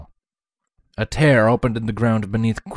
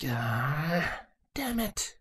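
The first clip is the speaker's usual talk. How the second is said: muttered; 6 semitones higher, 10 dB quieter, much slower than usual. Acted. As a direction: grumble it to yourself.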